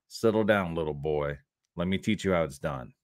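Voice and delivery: condescending put-down, voice dropping low and quiet; quiet, stern schooling of a little boy; too serious. Acted. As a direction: talk down to a cocky youngster in dead earnest. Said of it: "You sounded too serious right there".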